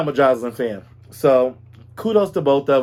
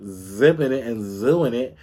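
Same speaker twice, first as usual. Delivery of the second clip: Wendy Williams catchphrase; 4 semitones lower than usual. Retold or imitated. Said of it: "as Wendy would say".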